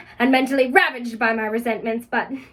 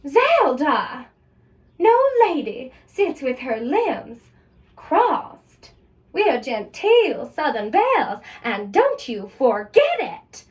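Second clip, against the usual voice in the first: scolding Mama; slower than usual. Acted. Mother scolds, Southern belle.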